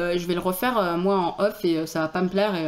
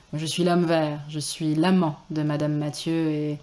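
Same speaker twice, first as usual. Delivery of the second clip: sexy voice; 4 semitones lower than usual. Acted. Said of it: "une voix sexy".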